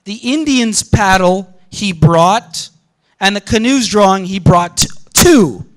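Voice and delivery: slow, each "he brought" its own phrase; slow phrasing demo. Shown as a demonstration. Lecturer showing the ellipsis structure, slow separate phrases. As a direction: spell out the hidden structure slowly, phrase by phrase. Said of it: "the structure here is something like".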